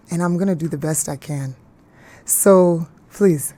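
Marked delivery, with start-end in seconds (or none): 3.1-3.5 mock crying plea; pleading. Real, not acted. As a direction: beg the audience half in tears. Pleading playfully to the audience.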